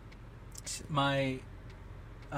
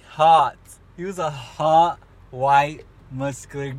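gushing; 6 dB louder, much slower than usual. Real, not acted. Gushing about hot guy.

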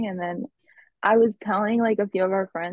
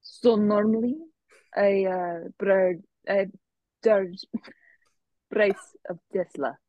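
fake Russian accent; slower than usual. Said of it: "Russian accent is fake".

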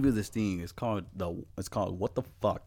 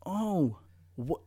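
put-on kid voice; 5 semitones higher than usual. Kid voice in retold exchange.

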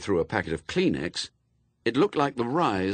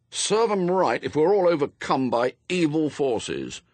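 grumbling; 5 semitones higher, 4 dB louder than usual. A narrator's reading. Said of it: "his master grumbled".

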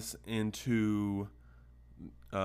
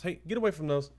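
sharp loud higher call to a cat; shooing call; 8 semitones higher, 5 dB louder, faster than usual. Real, not acted. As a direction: shout at the cat to get away.

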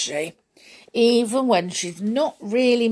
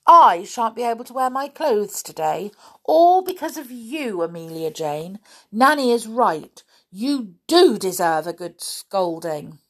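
indignant, with raised opening words; angry; 3 semitones higher, 4 dB louder than usual. Acted. Baby doll blames naughty Amelia Jane, angrily. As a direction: complain crossly as a small doll. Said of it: "the baby doll spoke angrily".

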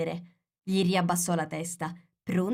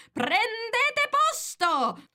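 very high, drawn-out royal bellow; thundered command; 4 dB louder, much slower than usual. A narrator's reading. Queen orders players to their places, thundering. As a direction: thunder the order, stretching every syllable. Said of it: "tuonò la regina".

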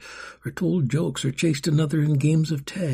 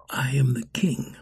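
king gently answering the scared orphan; gentle reply. Acted. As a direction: reassure the frightened boy. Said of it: "gently, careful not to frighten".

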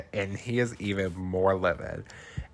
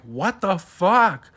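high, loud, slow "What the fuck?"; shocked outcry; 9 semitones higher, 6 dB louder, slower than usual. Retold or imitated. Bystanders reacting to the punch, shocked. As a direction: gasp it out in shock. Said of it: "they're like".

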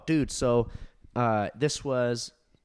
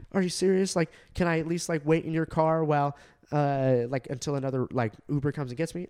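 higher-pitched, mock incredulous plea; imitated pleading passenger; 4 semitones higher, 3 dB louder than usual. Passenger asking her driver to let her wait, imitated as a higher plea.

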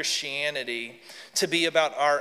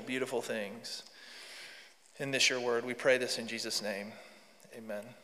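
prayer. Real, not acted. Leads a prayer.

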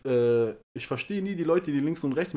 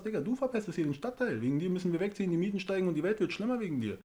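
higher, heated tirade, mock-addressing him; indignant rant; 6 semitones higher than usual. Ranting at the neighbour about polluting the district, higher and heated. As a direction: throw the blame back in his face.

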